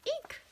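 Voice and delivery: high excited squeak; high squeal. Real, not acted. Squealing over the bunny stickers, a high excited squeak. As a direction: squeal with delight at the cute bunnies.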